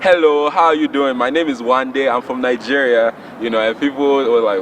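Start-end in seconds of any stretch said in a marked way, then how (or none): 0.0-3.1 lightly imitating his younger Nigerian-accented self; thick Nigerian accent. Boy newly arrived from Nigeria greets classmates, lightly imitated thick Nigerian accent. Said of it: "as a young ten-year-old with a very thick accent".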